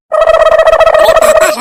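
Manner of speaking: long, very loud, high call; drawn-out shout. Acted. Son calling his stingy father, long loud drawn call.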